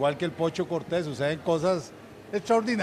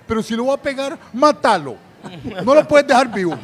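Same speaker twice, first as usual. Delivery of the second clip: loud, higher Portuguese-speaker imitation; imitating a Brazilian egging on; 6 semitones higher, 8 dB louder than usual. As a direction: urge him on with mock ferocity. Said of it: "comienza a hablar en portugués". (imitando a un brasileño azuzando, alto)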